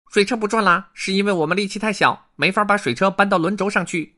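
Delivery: high, loud little beaver voice; lisping buck-toothed beaver. Acted. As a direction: explain it like a small beaver. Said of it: "第三只河狸说". (高声的小河狸)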